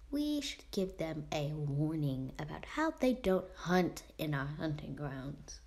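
Ice. Acted. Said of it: "Okay, that's for ice".

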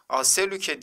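"Aselüke" starting with A instead of E; wrong reading. Shown as a demonstration. Teacher quizzes students with a wrong reading. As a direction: open "Aselüke" on A. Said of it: "diye okuduk mu?".

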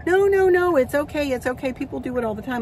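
a lighter imitation of her nail tech insisting; nail tech's protest.

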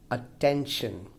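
"attention" stressed on TEN, falling away; second-syllable stress. Shown as a demonstration. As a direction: model "attention" with weight on TEN. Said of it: "clearly the stress falls on the second".

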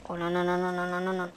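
low, soft string of no's; quiet, low muttered panic; hushed alarm. Real, not acted. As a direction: mutter it under your breath in dread. Creeper danger, rapid muttered no's.

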